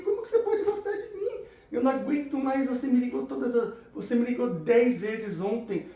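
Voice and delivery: a mock girl half-laughing, half-whining at him; the girl he met yesterday, fed up, laughing in disbelief; exasperated girl. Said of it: "eu vou mostrar uma cena aqui".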